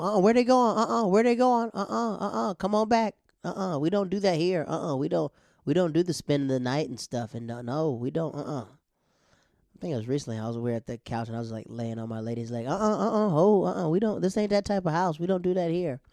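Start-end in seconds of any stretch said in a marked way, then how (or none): 0.0-8.6 high, loud scolding mom voice; strict mom. Retold or imitated. Mom stopping the boys leaving, high loud scolding. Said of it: "Tell me". 12.7-16.0 high, loud scolding mom voice; strict mom. Retold or imitated. Mom stopping the boys leaving, high loud scolding. Mom catching him on lady's leg.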